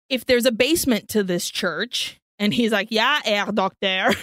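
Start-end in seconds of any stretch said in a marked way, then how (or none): 2.9-4.1 slow, lower put-on German accent; mock German accent. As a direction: answer in a bad German accent. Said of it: "trying to do a German accent".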